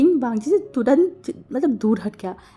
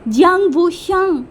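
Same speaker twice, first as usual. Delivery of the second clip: loud, higher, slow call across the street; shouting his name; 7 semitones higher, 6 dB louder, slower than usual. A narrator's reading. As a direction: yell his full name after him, stretched out. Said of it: "बहुत ज़ोर से चिल्ला के बोला".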